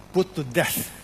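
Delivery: "put to death" in firm, separated beats; emphatic PUT TO DEATH. Shown as a demonstration. Preacher stressing the verse's command, emphatic "put to death". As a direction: land each word of "put to death" firmly. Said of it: "That's the emphasis".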